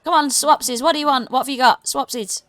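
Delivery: high, loud goblin sales call; loud goblin hawker. Acted. Goblin pressing the party to swap, loud and high. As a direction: bark it out like an eager goblin trader.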